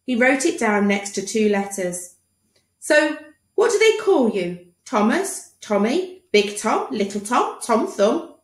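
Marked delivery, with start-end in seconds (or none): 2.8-8.3 lightly high, eager doctor; quizzing doctor. Acted. Doctor asking the boy's nickname, eager voice. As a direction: run through nicknames playfully.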